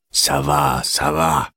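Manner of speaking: put-on grumbling old man, a touch whiny; grumpy whiny tone. A narrator's reading. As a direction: call out peevishly, lightly voiced. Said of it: "cria d'un ton géniard".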